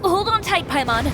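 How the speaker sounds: high, loud warning cry; urgent shout. Acted. Traveler warning Paimon as the room jolts, sudden loud shout. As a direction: shout it as the floor lurches.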